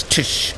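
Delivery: Tush as a lone syllable, nearly voiceless; sounding out TS. Shown as a demonstration. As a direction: hit the T, then sh in Tush. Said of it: "It's a T S".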